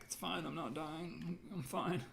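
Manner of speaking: small high voice, softly insisting; high, soft, slow act of staying calm; mock self-reassurance. Streamer imitating herself brushing off a pounding heart, mock self-reassurance.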